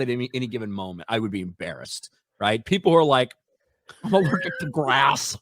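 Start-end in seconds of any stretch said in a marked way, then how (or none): 4.0-5.4 a light mock whine; lightly voiced sniveling complainer; whiny allergic person. Mocking allergic people.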